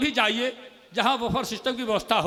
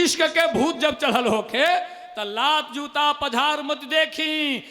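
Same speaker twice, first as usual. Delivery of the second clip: repeated poem line; slower than usual. Acted. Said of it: "मुक्तक".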